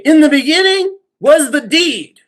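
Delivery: high, loud declamation in a friend's voice; Brian impression. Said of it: "my Brian impression".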